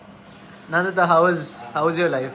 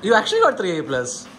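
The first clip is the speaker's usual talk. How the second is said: surprised; 2 semitones higher, 3 dB louder, much slower than usual. Real, not acted. Shocked at grades.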